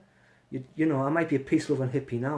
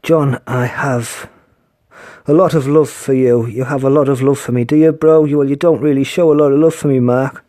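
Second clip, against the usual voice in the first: loud call-out; 15 dB louder than usual. Real, not acted. Calling out to viewer loudly.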